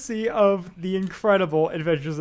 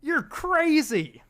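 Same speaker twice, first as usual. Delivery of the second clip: manager voice; 10 semitones higher, 4 dB louder, slower than usual. Acted. Playing the manager Mick.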